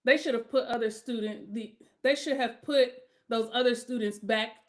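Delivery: halting misread with a false start; reading that stumbles over the words; stumbling reading. Real, not acted. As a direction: read aloud, trip and restart. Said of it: "look at me not even being able to read".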